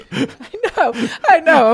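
high, loud burst through laughter; real amused outburst; laughing agreement. Real, not acted. Amused agreement with co-host's self-mocking remark.

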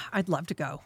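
breathy whisper, sighing first. Real, not acted. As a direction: whisper it with longing. Eager whisper about going.

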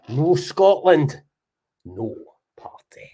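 slow stressed start dropping to a whisper; fading catchphrase. Acted. Host signing off to troops, fading to a whisper. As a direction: let the slogan die away into a whisper.

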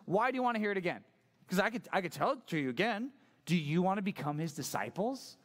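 sassy, not-serious invitation; sarcastic. Acted. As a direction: needle them with a fake-innocent offer. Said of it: "This is sarcastic. This is not being serious".

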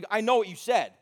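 high, baffled disbelief; mock baffled question about the car seats; incredulous friend. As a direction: ask it like you can't believe your ears. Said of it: "And he goes".

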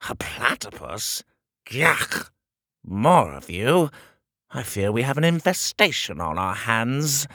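disgusted shrill royal voice; pompous shrill tyrant. Acted. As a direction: sneer at the vermin. King disgusted by Petey.

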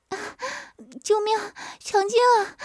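high, loud mock scream for help; wife shrieking in pretend alarm; loud playful cry for help. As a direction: cry out in a hammed-up panic. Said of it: "曲颖的大声叫道".

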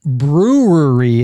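BREWERY drawn out slowly as "broo-wur-ee"; slow, smeared "brew-er-ee"; struggling pronunciation. Shown as a demonstration. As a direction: stretch brewery, blurring the middle r. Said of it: "It's so hard to say".

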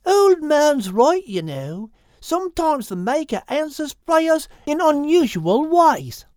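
high, slow platypus voice; high slow female platypus, encouraging; Quilpie the platypus. Acted. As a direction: say it slow and high, gently wise.

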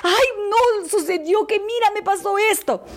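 high, gushing, dramatic storytelling; dramatic woman. Shown as a demonstration. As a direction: tell it like a breathless drama queen. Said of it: "relatar los hechos con dramatismo, usando tonos de voz".

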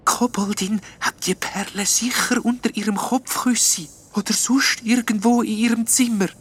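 whispered, high little ghost voice, losing hope; a hushed, disheartened ghost; discouraged whisper. A narrator's reading. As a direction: breathe it out as a small ghost who has given up. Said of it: "sagt der kleine Geist entmutigend".

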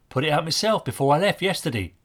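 just state it, no fuss; simply. A narrator's reading. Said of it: "he said simply".

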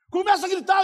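loud, high push to start; urgent command. Acted. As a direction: urge him loudly into shouting. Preacher urging volunteer to start shouting.

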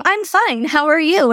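high, mock-polite small talk; mock the fake-cheery exchange; superficial pleasantry. Parents greeting on the school walk, mock superficial. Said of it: "it's so superficial and stupid".

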